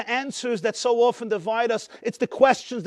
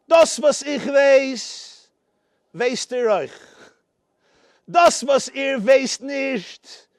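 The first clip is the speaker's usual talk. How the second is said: jester's Yiddish toast; 3 semitones higher, 3 dB louder, slower than usual. Retold or imitated. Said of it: "I'll say it in Yiddish".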